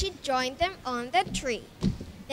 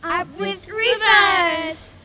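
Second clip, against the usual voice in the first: slow, loud, higher hoot; happy hooting; 5 semitones higher, 7 dB louder, slower than usual. Acted. Duckbills hooting at the river, slow and loud. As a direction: hoot it with delight. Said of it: "And they hooted".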